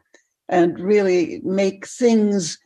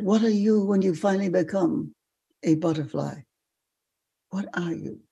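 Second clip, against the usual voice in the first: put-on softening French-accented question; 3 dB quieter than usual. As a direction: probe quietly in a French accent. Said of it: "in a French accent".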